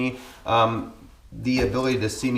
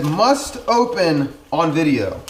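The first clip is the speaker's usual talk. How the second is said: MUST and OPEN drawn out louder and higher; emphatic label reading; 4 semitones higher, 3 dB louder, slower than usual. Real, not acted. Vlogger announcing a gift box's label to viewers, emphatic. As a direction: read "must open" big and slow, each word punched.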